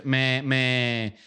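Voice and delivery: ordinary talk, nothing marked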